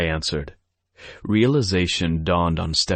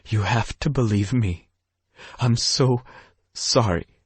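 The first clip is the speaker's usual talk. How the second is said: croaking; 5 semitones higher than usual. Acted. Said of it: "Stephanie croaked".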